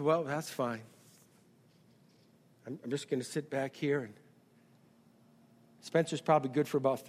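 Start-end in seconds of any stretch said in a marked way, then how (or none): 0.0-4.0 soft, easy-going God. Retold or imitated. God voiced, stepping back.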